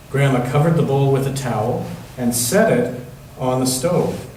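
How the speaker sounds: gentle storybook reading voice; reading to children. Acted. Pastor reading a picture book to the children, gentle storytelling. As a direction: read it like a bedtime picture book for the kids.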